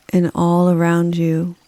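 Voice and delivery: calm, unhurried meditation delivery with long pauses; guided meditation. Acted. Yoga nidra guide leading listeners through a rainforest, calm guided meditation. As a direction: guide the listener gently, leaving space after each phrase. Leads a forest bathing meditation.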